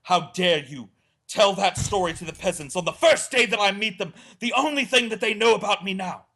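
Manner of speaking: high, loud scolding, building to the last word; imitating an offended partner's rebuke; mock outraged girlfriend. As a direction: scold him, rising indignant. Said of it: "she's like".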